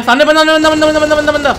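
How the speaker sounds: high, loud repeated callout; excited shout. Real, not acted. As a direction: yell the enemy's spot. Excited callout of enemy spotted.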